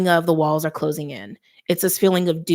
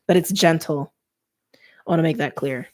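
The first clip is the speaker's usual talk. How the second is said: whispered aside. Real, not acted. Aside stressing the reading is gentle.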